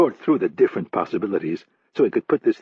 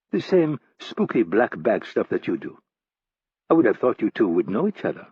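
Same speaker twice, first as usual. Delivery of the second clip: lightly voiced woman. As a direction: play the woman hosting the table.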